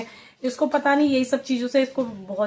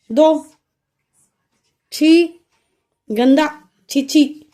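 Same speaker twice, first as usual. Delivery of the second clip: short louder barks of छी and गंदा; disgusted scolding; 3 semitones higher, 5 dB louder, much slower than usual. Real, not acted. Mother telling toddler to hand over dirty thing, disgusted. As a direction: make her drop the dirty thing.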